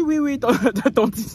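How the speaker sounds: high, loud mock polite; lightly voiced polite boy; polite reply. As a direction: answer the auntie in a hurry. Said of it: "Il dit".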